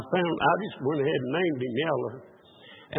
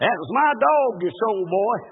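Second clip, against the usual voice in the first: higher, louder acted accusation; mock complaint; 4 semitones higher, 4 dB louder than usual. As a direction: call out a mock grievance. Acted complaint from dog's former owners.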